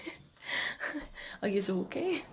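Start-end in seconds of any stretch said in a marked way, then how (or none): 1.4-2.2 whispering. Real, not acted. Whispering near sleeping toddler.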